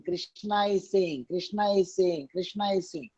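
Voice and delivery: slow, deliberate repeat of "Krishna is saying"; emphatic repetition. Shown as a demonstration. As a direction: lean on "Krishna is saying" each time, slowly. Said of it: "Again, I'm emphasizing".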